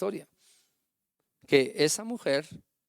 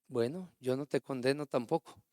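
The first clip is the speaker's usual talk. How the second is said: merciful; 2 semitones lower, 6 dB quieter than usual. Retold or imitated. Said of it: "Con misericordia, con bondad".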